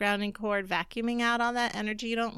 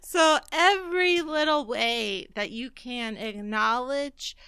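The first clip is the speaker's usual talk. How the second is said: stifled giggles; 3 semitones higher, 5 dB louder, slower than usual. Real, not acted. Still laughing, trying to continue.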